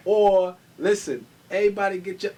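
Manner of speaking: loud hype call to the dance floor; rally the crowd like a party host. Acted.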